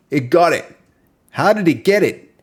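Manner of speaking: high, loud amazed disbelief; real astonishment; surprised. Real, not acted. Reacting to the text-to-speech getting the Aussie line, surprised. Speech tool understood the accent.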